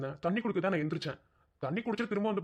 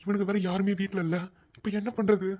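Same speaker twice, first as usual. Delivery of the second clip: alarmed worry; 4 dB louder than usual. Acted. Husband alarmed by wife's state.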